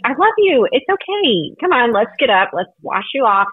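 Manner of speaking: tender reassurance. Retold or imitated. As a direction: lift a fallen child up tenderly. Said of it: "he's like".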